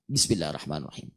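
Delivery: soft murmured basmalah; quiet recitation. Shown as a demonstration. Teacher repeats sir reading, murmured softly. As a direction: keep it under your breath. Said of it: "saya bacanya sir".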